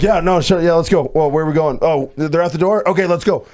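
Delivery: just-woken sleeper happily agreeing to anything; eager obedient yes. Retold or imitated. Groggy sleeper eagerly obeying whoever woke him. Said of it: "you're very obedient".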